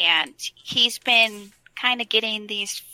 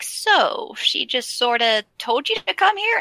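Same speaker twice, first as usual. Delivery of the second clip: lightly raised, quizzical dwarf voice; playing Bran asking, curious; a hint of a puzzled Bran; Bran's voice; 5 semitones higher than usual. Bran voiced in retold game scene.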